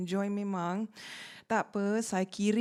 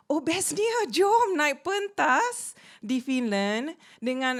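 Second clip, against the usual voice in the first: mock excitement; 5 semitones higher, 4 dB louder, slower than usual. Mock excitement about the topic.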